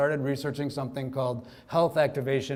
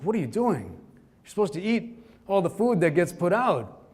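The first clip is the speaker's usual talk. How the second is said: a mock uncle's lecture, slowed and raised; scolding uncle; 5 semitones higher than usual. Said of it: "he's actually scolding me".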